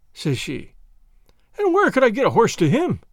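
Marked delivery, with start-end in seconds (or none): 1.6-3.0 higher-pitched indignant retort; acted, exasperated comeback; show of fury. A narrator's reading. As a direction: turn on the listener in mock outrage. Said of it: "turning on her with the same appearance of fury".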